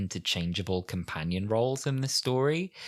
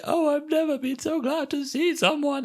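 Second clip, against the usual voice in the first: mock overjoyed relief, pitched far higher; gushing relief. Sarah Jane towed up the hill, hammed-up relief. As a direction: gush it like a rescued heroine.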